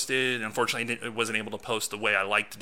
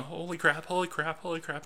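stunned; 7 semitones higher, 3 dB quieter than usual. Retold or imitated. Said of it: "I'm sitting there going".

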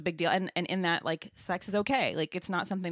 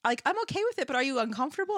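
masseuse voice; 8 semitones higher, faster than usual. Retold or imitated. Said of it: "she's like".

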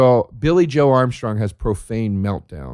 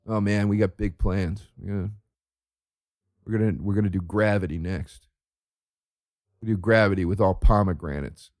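mock dim YouTuber; 5 semitones lower, 4 dB quieter than usual.

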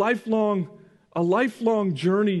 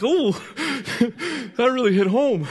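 laughing; 3 semitones higher than usual. Retold or imitated. Son's honest remark retold laughing.

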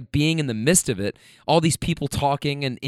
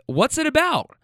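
higher, excited asking; eager question; 12 semitones higher than usual. Retold or imitated. Drunk rider asking the driver about his podcast, excited. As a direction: lean in curious.

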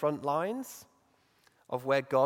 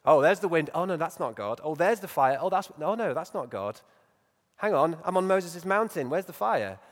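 mock-eager looking around for God; playful Elijah; 4 semitones higher, 5 dB louder than usual. Preacher playfully voicing Elijah hunting for God in the fire. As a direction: play it as a puzzled, hopeful search. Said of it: "something quite playful about the way".

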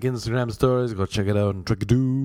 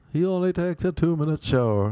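mocking buddy voice; 6 semitones higher, 3 dB louder than usual. Buddy mocking him to Chris.

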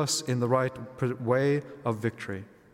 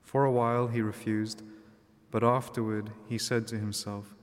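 measured liturgical reading voice; gospel reading. Acted. Gospel read aloud at Mass.

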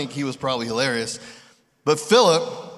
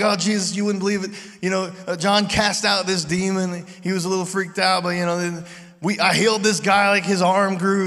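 excited disciples; 4 semitones higher than usual. Retold or imitated. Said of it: "super excited to, to kinda debrief".

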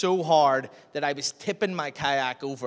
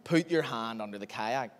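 calm inner voice; 6 semitones lower, 6 dB quieter than usual. Retold or imitated. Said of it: "this voice in my heart".

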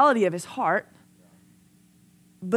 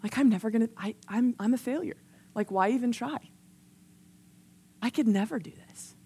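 soft, mildly hopeless retelling; defeated teenage self; 4 dB quieter than usual. Retold or imitated. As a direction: re-enact giving up in quiet self-doubt. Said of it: "I remember reading it and being like".

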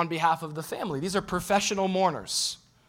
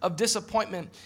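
doubting believer's prayer; 5 semitones higher, 6 dB louder than usual. Retold or imitated. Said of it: "imagined prayer of doubt".

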